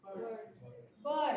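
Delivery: बर्ड with a long drawn अ and no r sound; silent r, long vowel. Shown as a demonstration. Teacher demonstrates the silent r, slowly stretched. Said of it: "आर silent है".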